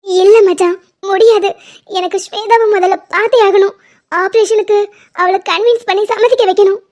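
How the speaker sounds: upset, crying refusal; tearful insistence. Acted. Persi refusing to sit, must see Swetha, tearful. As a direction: insist through tears. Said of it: "first அழாத".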